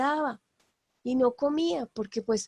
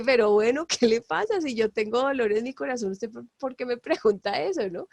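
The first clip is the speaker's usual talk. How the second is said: mock irritated retort. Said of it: "como diciendo".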